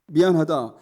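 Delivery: preacher quoting God emphatically. Retold or imitated. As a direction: declare it as God explaining a purpose. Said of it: "하나님께서 이렇게 말씀하셨습니다".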